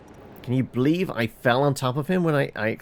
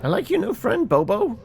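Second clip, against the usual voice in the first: teasing; 11 semitones higher than usual. Acted. Teasing remark about the bot.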